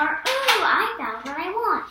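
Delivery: excited discovery; excited ooh. Pretend. Child offers another exclamation sentence, excited.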